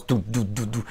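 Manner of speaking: low, measured "du" steps; imitated heavy footsteps. Walking hard in the house, imitated heavy footsteps. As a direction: stomp it out with the voice. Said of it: "Or walking hard".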